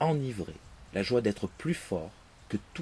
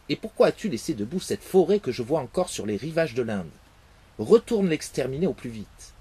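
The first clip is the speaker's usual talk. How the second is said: louder, commanding rebuke; stern father; 3 semitones higher, 6 dB louder than usual. Acted. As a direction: order him back to his task. Father orders destruction.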